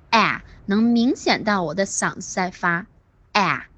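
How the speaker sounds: 啊 sounded from the throat as open English short a; 用嗓子发音. Shown as a demonstration. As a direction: open the mouth wide and voice 啊 from the throat. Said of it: "一定要用你的嗓子去发音". (张大嘴用嗓子发“啊”，像英语 cat 里的元音)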